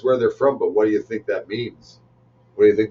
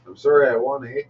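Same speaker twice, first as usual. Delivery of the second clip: higher mock Canadian apology; apologetic Canadian winner; 5 semitones higher than usual. Canadian wrestler apologizing to the loser, mock-apologetic. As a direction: play a politely sorry Canadian wrestler.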